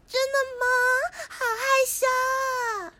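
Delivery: bashful cute act, drawing out the words. Acted. Girl flattered about her cuteness, coyly acting cute. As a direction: lay on the cute shyness, slowly. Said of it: "又在装可爱了".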